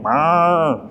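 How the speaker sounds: drawn-out imitated moo; cow moo. Traveller mimics the cows that follow him everywhere, cow moo. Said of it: "a cow mooing at me".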